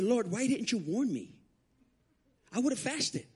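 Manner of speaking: high, drawn-out complaint to God; mad at God. Retold or imitated. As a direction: whine a slow reproach upward. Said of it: "I got mad at God".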